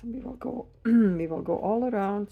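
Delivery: hoarse, worn-out voice; losing voice. Real, not acted. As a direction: voice giving out, clears throat. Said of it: "Sorry, I'm losing my voice".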